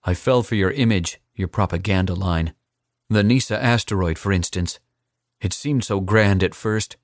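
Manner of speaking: put-on defiant young assassin. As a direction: throw the threat back in his face.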